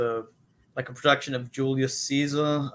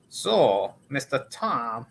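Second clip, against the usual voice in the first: put-on a light stereotyped Chinese accent; slow on you have podcast, broken English, James Hong style; mock Chinese accent; slower than usual. Cohost teasing Tom in a light mock Chinese accent. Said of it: "the Chinese accent".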